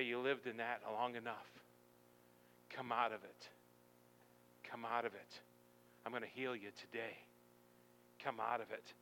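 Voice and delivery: softly repeated, patient appeal; gentle urging. Acted. Jesus calling you out to heal you, gentle urging.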